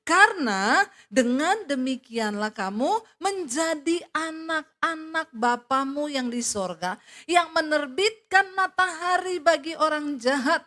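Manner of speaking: loud, slow, emphatic scripture reading; preaching at full force. Acted. Preacher proclaims Jesus' words to the congregation, loud and slow. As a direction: proclaim each phrase to the congregation.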